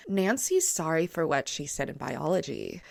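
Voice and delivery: a hint of a mid-range voice. Shown as a demonstration. Showing the right reading, a soft mid-range voice. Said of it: "more mid-tone in the vocal range".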